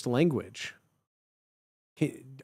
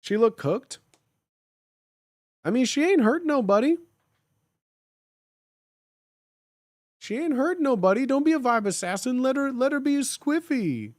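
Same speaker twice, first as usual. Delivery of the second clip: high mock voice; 9 semitones higher than usual. Mock slang voice.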